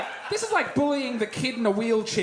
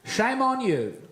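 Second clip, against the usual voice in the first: mock solemn proverb; 10 semitones lower than usual. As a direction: recite it like fake wisdom, voice dropping. Mock proverb routine, mounting self-pity.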